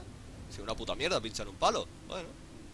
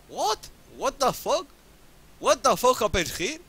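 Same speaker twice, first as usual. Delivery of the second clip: high, slow, drawn-out what the fuck; can't believe what just happened; stunned, high and dragged out; stunned disbelief; 7 semitones higher, 4 dB louder, slower than usual. Real, not acted. Shocked by the reroll result.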